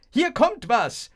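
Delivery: high, loud, stretched-out call; shouted warning. A narrator's reading. Thrower warning the crowd, high drawn-out shout. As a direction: holler it slowly to the crowd. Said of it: "schrien und riefen".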